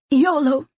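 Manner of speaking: yolo hidden inside a fake cough, high and loud. Friend sneaks a joke past the table, coughing it. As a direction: cough the word out so it passes as a cough. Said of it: "disguised in a cough".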